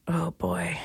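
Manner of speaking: breathless whispered aside. Real, not acted. Dreading getting older, whispered under her breath. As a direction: whisper it to yourself.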